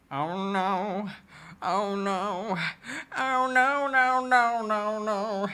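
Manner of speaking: from mutter to high panicked yelling; rising panic. Real, not acted. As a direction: let the panic build into a shriek. Panicking at creepy game character.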